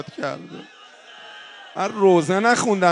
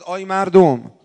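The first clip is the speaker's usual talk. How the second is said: loud call to the crowd in the bazaar; 6 dB louder than usual. Retold or imitated. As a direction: cry out to the market crowd. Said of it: "اومد وسط بازار داد زد". (فریاد زدن در بازار)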